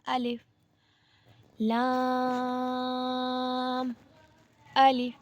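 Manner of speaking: अलिफ, लाम, अलिफ each said apart with pauses; separate letters. Shown as a demonstration. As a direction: pause between every letter. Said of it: "मुफरद की तरह ही पढ़ना है". (हर हर्फ अलग-अलग, रुक कर)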